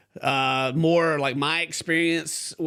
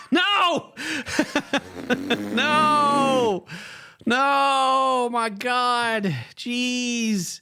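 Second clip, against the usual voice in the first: high, loud shocked cries; 9 semitones higher, 3 dB louder, much slower than usual. Real, not acted. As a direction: recoil in loud disbelief. Shocked reaction to threat.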